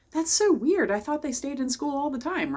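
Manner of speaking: put-on child amazed to see teacher outside school; surprised kid thought. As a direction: voice a kid's baffled discovery.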